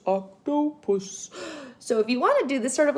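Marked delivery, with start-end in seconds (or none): 0.1-1.3 slow sounding out. Shown as a demonstration. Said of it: "sound it out".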